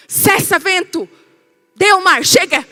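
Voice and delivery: slow, loud, firm orders to the wind; commanding rebuke. Acted. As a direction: silence the sea with authority. Jesus commands the storm.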